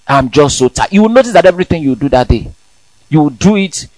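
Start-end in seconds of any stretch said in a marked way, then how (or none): 0.1-0.9 sighing tired whine; a drained morning moan; weary complaint. Retold or imitated. Sleepy believer programming his day with tiredness. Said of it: "You already programmed your day".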